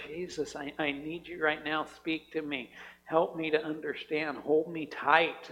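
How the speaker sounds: tender prayer. Retold or imitated. Voices tender prayer for comfort.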